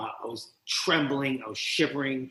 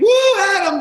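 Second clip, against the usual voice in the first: high, loud cheer of woo; cheering shout; 10 dB louder than usual. Retold or imitated. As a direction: yell it like a cheering crowd. Crowd cheering him on.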